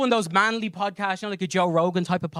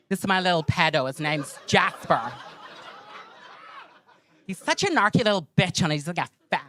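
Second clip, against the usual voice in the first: Brandy. Acted. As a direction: imitate a backhanded coworker showing off her pet. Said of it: "I took her voice for that".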